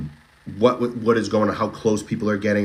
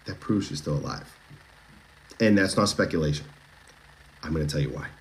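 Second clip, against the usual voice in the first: softer, late-night radio DJ voice; bedtime magic voice; 4 semitones lower, 4 dB quieter than usual. Shown as a demonstration. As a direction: croon it like a bedtime radio host. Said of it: "this is my bedtime magic voice".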